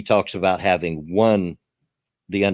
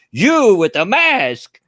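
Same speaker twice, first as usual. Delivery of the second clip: fake Russian accent; 11 semitones higher, 6 dB louder, slower than usual. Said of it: "he's got this fake Russian accent".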